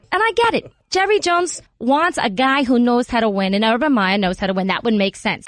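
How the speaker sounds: Jersey Italian mom on the radio; chatty New Jersey mother voice; New Jersey mom accent. Acted. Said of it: "This is exactly how she sounds".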